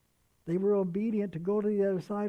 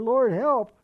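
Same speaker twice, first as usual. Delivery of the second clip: urgent cry; 3 semitones higher, 8 dB louder than usual. Acted. Preacher demonstrating a quick Peter prayer, urgent louder plea. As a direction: call out for help in one breath.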